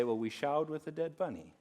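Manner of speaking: laughing through the words; can't keep a straight face; chuckling while telling the punchline. Real, not acted. Laughing at the confession.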